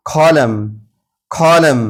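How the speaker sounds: कॉलम ending on M, no N; silent N. Shown as a demonstration. Teacher models column for learners, कॉलम with silent N. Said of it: "एम पर आवाज़ को ख़त्म कर देंगे".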